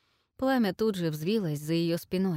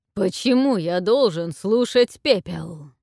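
scornful dragon rumble; 8 dB louder than usual. A narrator's reading. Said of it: "загрохотал дракон гулким железным смехом".

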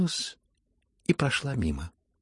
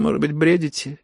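louder, higher, scornful verdict; haughty dismissal; 6 semitones higher, 7 dB louder than usual. A narrator's reading. The general's wife dismissing the prince haughtily. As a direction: brush him off from above. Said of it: "решила генеральша и надменным жестом".

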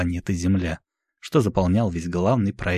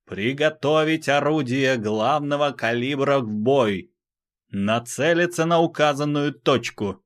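raised, commanding battle order; loud clear command; 7 semitones higher than usual. Acted. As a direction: bark the order across the bridge. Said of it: "громко и чётко скомандовал".

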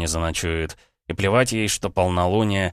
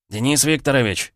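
a mild call, a bit higher and louder; shouting name; 7 semitones higher, 3 dB louder than usual. A narrator's reading. Paramedic calls out to Denis from the car, mildly raised. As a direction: call out across the yard. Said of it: "заорал он".

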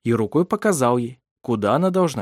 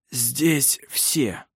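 lifeless voice; 3 dB quieter than usual. Acted. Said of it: "своим безжизненным голосом".

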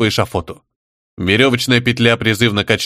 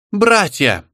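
high-pitched squealing call; 9 semitones higher than usual. Acted. Shtanina rallying the tribe, squealing shout. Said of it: "заверещала она".

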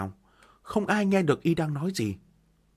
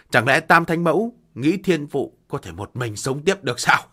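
laughing bitterly; 6 dB louder than usual. Acted. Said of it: "cười nói".

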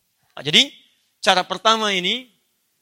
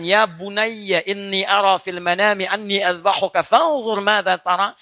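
father's tender words; slower than usual. Acted. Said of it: "Begitu bapaknya mengatakan".

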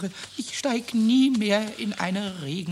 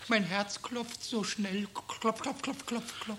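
weak and sick; 8 dB quieter than usual. Acted. Sick goblin feels heartbeat.

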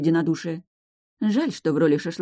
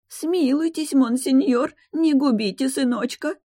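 pleading mother; 9 semitones higher, slower than usual. A narrator's reading. Mother begs for her son.

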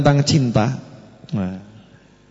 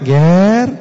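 gentle call; 4 dB louder than usual. Shown as a demonstration. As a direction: call the child tenderly. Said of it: "Halus gitu". (Ger dipanggil halus)

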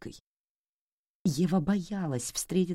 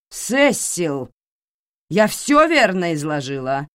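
icy drawl; 4 semitones higher, 7 dB louder than usual. Acted. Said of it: "напевным тягучим голосом".

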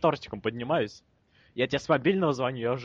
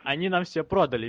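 louder, clearer repeat for someone who didn't hear; 3 semitones higher than usual. Real, not acted. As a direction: say it again so they catch it. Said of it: "Чего?".

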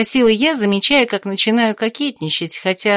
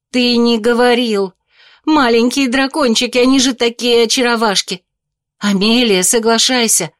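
squealing with delight; 3 semitones higher, 3 dB louder than usual. Acted. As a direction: squeal like a thrilled girl. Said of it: "запищала от восторга".

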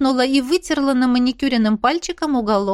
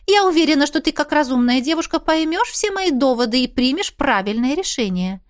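high, excited chatty mother; mother gushing; 5 semitones higher than usual. Acted. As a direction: gush like a thrilled mother. Mother persuading. (восторженная мама, высокий голос)

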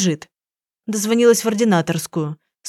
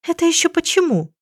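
ordinary delivery, nothing marked

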